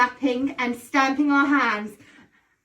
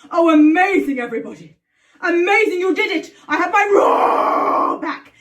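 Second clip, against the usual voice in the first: excited; 4 semitones higher, 6 dB louder than usual. Acted. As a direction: shout it with delight. Character thrilled to regain roar.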